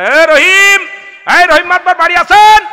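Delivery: high, loud call across a yard. Acted. Visitor calling out for the headman at his door. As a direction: call to the house from outside.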